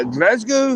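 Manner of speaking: GLASGOW with drawn "a" and full "go"; mock-posh pronunciation. Shown as a demonstration. Rejecting the toffs' way, Glasgow as posh "Glaz-go". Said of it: "No point in saying".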